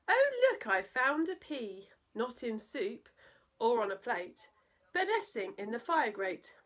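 a high "Oh, look" then lighter chatter; lightly voiced surprised guest. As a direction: squeal the first words like a startled guest at tea. Guests at tea exclaim.

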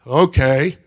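low, reserved acted reply; elderly gentleman. Gentleman answering a forward woman, low guarded reply. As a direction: answer low, a little wary. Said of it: "He goes".

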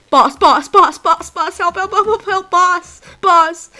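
frantic calls for help; calling for help. Real, not acted. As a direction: yell for the boss.

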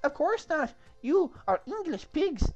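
very high, loud mock French insult; badly faked French accent. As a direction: sneer at the English in bad French accent. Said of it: "I can't do the accent".

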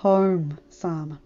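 kindly; smiling. Acted. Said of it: "John said with a smile".

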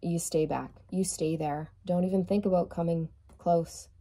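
a low, understated warning to keep away; guardian wolf warning. Acted. Wolf on the card guarding the Empress, warning. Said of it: "this wolf is like".

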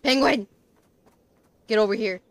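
loud call across the room; loud summoning shout. Real, not acted. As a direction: call out to the penguin. Calling the penguin over.

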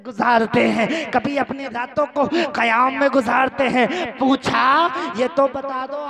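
projected, insistent sermon voice; impassioned preaching. Acted. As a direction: ring each phrase out to the congregation. Preaching swells again. (जोशीली तक़रीर)

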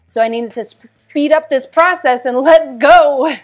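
laughing at her own impatience with the therapists. Real, not acted. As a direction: break into a laugh as you push on.

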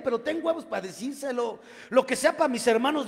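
fed up, face her down; angry son's retort. Retold or imitated. Son confronting his mother.

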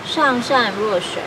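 measured reading in short, paused phrases; formal Mandarin read-aloud with falling phrase ends; classical Chinese recitation. Acted. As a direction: recite an ancient text line by line.

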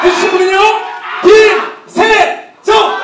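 loud, high hype announcing; excited shout. Real, not acted. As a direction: shout the winner's name to the crowd. MC hyping the crowd.

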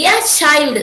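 put-on light "a", then a strong "child"; teacher punching "child" to show the beat; stress on CHILD. Shown as a demonstration. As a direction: hit "child" firmly after the unstressed "a". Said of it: "we are stressing".

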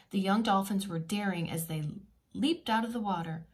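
lively storybook reading voice; reading to children. A narrator's reading. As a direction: read it like a bedtime picture book.

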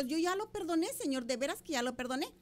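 mild pleading with God; understated acted plea; retold tearful prayer. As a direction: insist earnestly, a touch of tears. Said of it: "empiezo a llorar".

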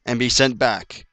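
slow, word-by-word begging; desperate pleading. Real, not acted. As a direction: plead with the game, spacing out each word. Begging the game for health.

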